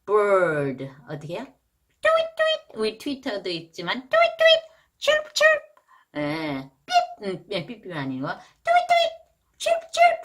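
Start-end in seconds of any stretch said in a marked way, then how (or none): 2.0-2.6 very high chirpy tweet, tweet; bird tweet. Shown as a demonstration. Teacher showing the bird sound, high chirping. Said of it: "이렇게 해주세요". 4.1-5.6 very high chirpy tweet, tweet; bird tweet. Shown as a demonstration. Teacher showing the bird sound, high chirping. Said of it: "이렇게 해주세요". 8.3-10.2 very high chirpy tweet, tweet; bird tweet. Shown as a demonstration. Teacher showing the bird sound, high chirping. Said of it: "이렇게 해주세요".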